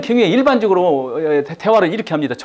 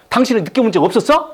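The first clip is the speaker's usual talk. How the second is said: defensive retort; 4 semitones higher than usual. Retold or imitated. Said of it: "저쪽에서 뭐라고 하세요".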